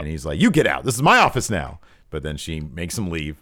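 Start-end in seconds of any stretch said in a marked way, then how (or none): 0.4-1.8 mock defiance. Gargano refuses to leave.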